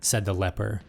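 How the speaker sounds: dark herald addressing his rival; sinister cosmic lord. Acted. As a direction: speak as an ancient villain savouring victory. Prince and leper voiced.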